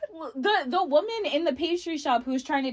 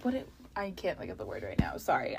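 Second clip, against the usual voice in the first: muttering; 12 semitones lower, 12 dB quieter, faster than usual. Real, not acted. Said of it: "I might be drunk already".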